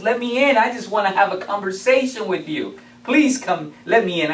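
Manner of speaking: lightly voiced wolf, a bit high and loud, wheedling; coaxing wolf. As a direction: sweet-talk them into opening the door. Wolf coaxes pigs to open.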